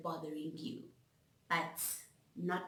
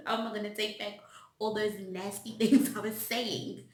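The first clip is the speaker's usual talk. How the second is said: louder, laughing through the question; 7 dB louder than usual. Real, not acted. Asking how to take back nasty words, laughing. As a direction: laugh at your own regret.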